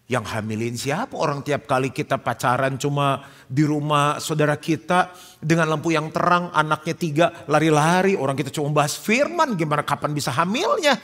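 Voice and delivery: membantah dengan heran, makin keras; protes tak percaya. Acted. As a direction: bela diri seperti pacar yang dituduh. Membantah pengakuan hamil calon istri. (protes heran, suara meninggi)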